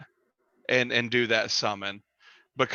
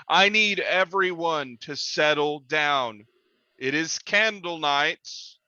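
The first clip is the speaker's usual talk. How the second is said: slow, measured voice of the humanoid chief; a steady leader calming the group; slower than usual. Acted. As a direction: settle the crowd down, firmly and slowly.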